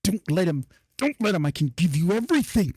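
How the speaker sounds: a hint of a tempting spirit begging; pleading voice in head. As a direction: bargain desperately, pushing harder each time. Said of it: "he hears in his head".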